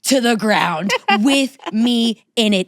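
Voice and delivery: slow, weighty comic threat; mock-outraged ultimatum. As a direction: spell out the threat word by word, deadly serious for laughs. Mock ultimatum over boyfriend's insult.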